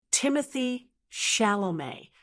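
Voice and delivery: "Timothée Chalamet" modelled as "TIM-uh-thee SHAL-oh-may"; model pronunciation. Shown as a demonstration. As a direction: say "Timothée Chalamet" for learners to repeat. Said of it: "Try it with me".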